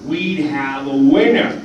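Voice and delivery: showman voice, slowing at the end; Stan Lee impression. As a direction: boast like a hyped showman. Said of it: "we all have our bad Stan impressions".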